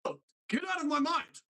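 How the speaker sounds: high, strained outburst in a character voice; J K Simmons as Uncle Ford. Acted. Voice actor demoing his cartoon uncle, high outburst. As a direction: cry it out as a cartoon great-uncle. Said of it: "do the J K Simmons voice doing".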